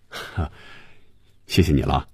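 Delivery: low, easy thanks after a small chuckle; amused thanks. A narrator's reading. Boss thanks the nervous assistant, lightly amused. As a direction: give a brief ha, then thank lightly. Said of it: "笑着说".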